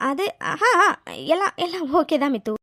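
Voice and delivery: hesitant, stumbling cover-up; stall, then insist unconvincingly; evasive. Acted. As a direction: caught out and fumbling for an answer. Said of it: "உன் பதிலே சரியில்லை".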